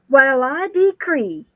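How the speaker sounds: put-on slow, deliberate old-timey declaration; old-fashioned decree. Host imitates an old spirit's words, a slow mock old-timey declaration. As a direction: draw it out like a gentleman from long ago. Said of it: "he says".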